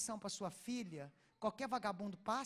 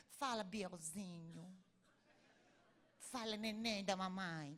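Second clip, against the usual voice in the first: put-on slow, lower baby-talk of a smothering mom; doting mother; 4 semitones lower, 5 dB quieter, slower than usual. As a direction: coo at a teenage son like a baby. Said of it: "A mãe fica assim".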